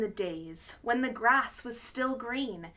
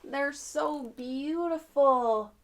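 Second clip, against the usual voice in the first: admiring; 2 semitones higher than usual. Real, not acted. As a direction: savour it fondly. Reader admiring the trees.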